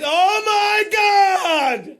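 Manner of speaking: loud, drawn-out cry of disbelief; shocked outcry. Real, not acted. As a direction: gasp it out, stretched and loud. Reading shocking news aloud.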